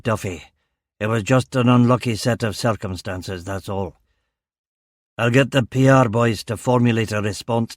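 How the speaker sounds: stern Govan police chief, lightly voiced; Strong. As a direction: warn a subordinate in a Govan accent. Narrator voices the chief superintendent.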